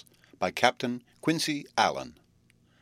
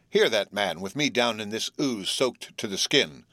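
mock anger. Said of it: "shaking his fist upward in mock anger".

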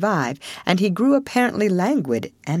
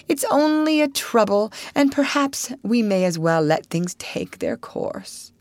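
feeble toad; 5 semitones higher than usual. Acted. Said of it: "more feebly than ever".

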